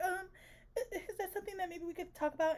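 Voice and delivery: soft, hesitant demure question; imitating demure. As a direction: broach it timidly with a small stammer, keeping the volume down. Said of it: "even that was very demure".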